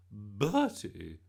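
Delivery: loud, sharp hiss of a name; hissed reproach. A narrator's reading. Gran catching Bertie misbehaving at the party, hissing. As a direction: hiss it as a scolding. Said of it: "hissed Gran".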